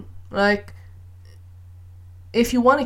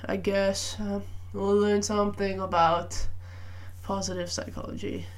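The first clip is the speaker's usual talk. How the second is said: very slow, bored droning teacher; monotone lecturer; 5 dB quieter than usual. Retold or imitated. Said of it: "a monotone".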